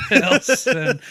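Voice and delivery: loud, high, pained call. Pretend. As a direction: wail the name out. Robot castaway calling.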